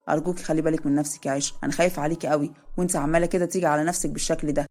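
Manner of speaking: a hint of the husband soothing her; lightly voiced worried husband. Zein worried for wife.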